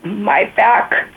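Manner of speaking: emotional, recovering from tears; after crying. Real, not acted. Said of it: "I'm getting teary-eyed".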